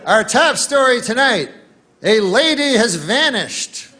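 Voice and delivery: mock TV anchor greeting; hammed-up evening news opener; newsman voice. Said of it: "And he goes".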